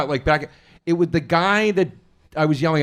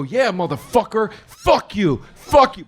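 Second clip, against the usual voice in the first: mock yelling; 6 semitones higher, slower than usual. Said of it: "distracted by my yelling".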